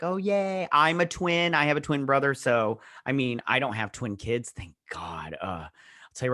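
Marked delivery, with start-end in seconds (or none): 0.0-2.3 playful cheer. Retold or imitated. Own cheer, re-enacted.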